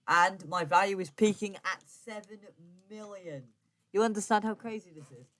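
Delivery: excited disbelief. Real, not acted. Gloating to viewers over the value, excited. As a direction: sell how crazy the numbers are.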